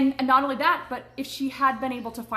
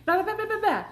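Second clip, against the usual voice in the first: dismissive blah; 13 semitones higher, 6 dB louder, faster than usual. Real, not acted. Dismissing repeated questions.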